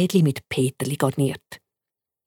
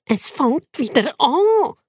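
higher, slow exasperated squeaking; 8 semitones higher, slower than usual. Acted. Turbo to Bacon, fed up again. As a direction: groan it like a fed-up pet.

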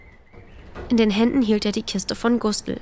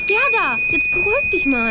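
raised, higher call to settle her down; calling out to calm; 9 semitones higher, 5 dB louder than usual. Acted. Elli calls loudly over the noise to calm Gerda. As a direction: call over the noise, soothing but loud. Calming screaming goose.

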